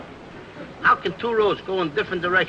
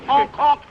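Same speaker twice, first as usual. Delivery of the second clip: goose honk; 7 semitones higher, 5 dB louder than usual. Acted. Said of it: "that Canadian, uh, the geese".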